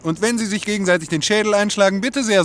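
high, loud, mocking scorn; loud sarcastic scoff. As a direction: sneer at the whole idea. Cynical man mocks the worry.

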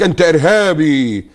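slow, pointed accusation. Retold or imitated. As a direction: spell out the charge slowly. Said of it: "يقول لك".

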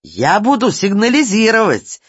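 high, loud, spluttering protest; choking with rage. A narrator's reading. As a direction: splutter it out in a frenzy. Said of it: "захлёбывался Ситечкин".

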